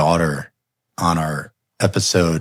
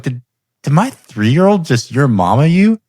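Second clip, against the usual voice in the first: higher, stammered retold disbelief; incredulous; 7 semitones higher, 3 dB louder than usual. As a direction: act out a stunned dad checking with his wife. Dad's disbelief at toddler's joke.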